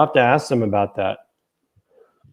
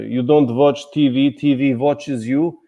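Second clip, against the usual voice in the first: mock Russian saying; 2 semitones higher than usual. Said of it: "you know the old saying".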